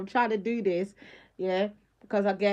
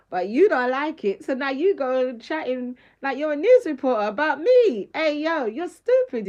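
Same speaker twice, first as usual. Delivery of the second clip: indignant; 3 semitones higher, 6 dB louder than usual. Real, not acted. Scolding an ex online.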